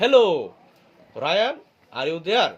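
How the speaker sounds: loud call to a friend outside. Shown as a demonstration. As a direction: call out his name from outside the house. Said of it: "উচ্চ স্বরে কি বলতেছে".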